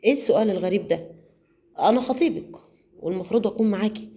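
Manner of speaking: quick, sly reply; David slyly dodging her question, quick and offhand. Acted. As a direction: brush it off slyly and fast. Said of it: "رد عليها بخبث".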